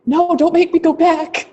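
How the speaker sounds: slow, whiny-playful protest; mock pleading. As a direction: playfully beg not to be sent back. Playful protest at ending the call.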